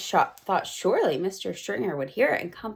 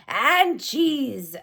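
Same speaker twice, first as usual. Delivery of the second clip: mild mock shout; 4 semitones higher than usual. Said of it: "shouted the Grand High Witch".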